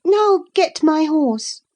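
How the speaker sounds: high, slow, lordly command; imperious order. A narrator's reading. To her unknown cousin, a slow imperious command. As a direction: order him like a stable boy. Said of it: "as she would one of the stable boys".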